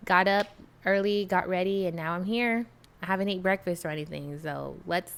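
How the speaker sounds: sleepy morning voice, just woke up. Real, not acted. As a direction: talk like you just got out of bed. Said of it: "still got my sleepy voice".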